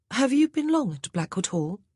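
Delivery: put-on a young lady at a loss; Grace, the new lady of the house. A narrator's reading.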